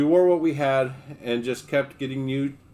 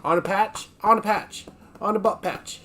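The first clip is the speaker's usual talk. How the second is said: high, sing-song coo to the dog; 7 semitones higher than usual. Real, not acted. Cooing at the dog.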